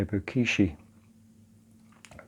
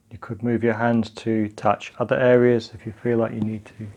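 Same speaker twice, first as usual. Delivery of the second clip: calm, unhurried practice guidance; guided meditation. Acted. Teacher leading partners through grounding and breathing, calm guided meditation. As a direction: guide them gently through it, leaving long pauses.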